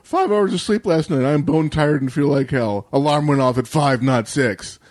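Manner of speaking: hammed-up grumble about lost sleep; mock Twitter outrage. Complaining Twitter user airs outrage at early alarm, mock whine. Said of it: "your normal Twitterverse outrage".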